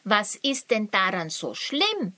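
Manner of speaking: erstaunt. Acted. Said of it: "fragte Luri erstaunt".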